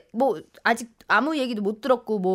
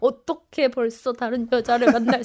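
drawn-out mock-weepy grievance; imitated tearful lament. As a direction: mimic a jilted person wailing a slow complaint. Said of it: "나한테 하소연처럼 막 하는 거야". (울먹이며 늘어지게 하소연하는 흉내)

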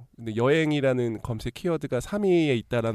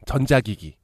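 hyped giveaway announcement; 3 semitones higher, 8 dB louder, slower than usual. Acted. Countdown ranking reveal.

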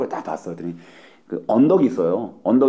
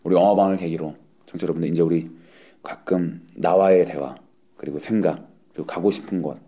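deep voice; 4 semitones lower, 4 dB quieter than usual. Pretend. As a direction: drop your voice low like a guru. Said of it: "갑자기 왜 이렇게 목소리 깔고 그래요?".

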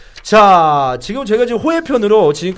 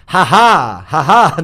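spoken, louder "ha ha"; mock laugh; 5 dB louder, much slower than usual. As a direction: imitate a laugh in two deliberate bursts. Voicing the player's laugh before answer.

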